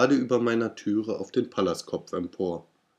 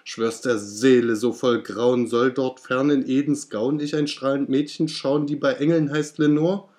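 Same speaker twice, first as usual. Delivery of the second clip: much higher, louder frantic plea; desperate cry; 4 semitones higher, 4 dB louder than usual. Acted. Narrator begs the raven about Lenore, higher and louder. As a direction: plead with rising desperation. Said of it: "rief ich".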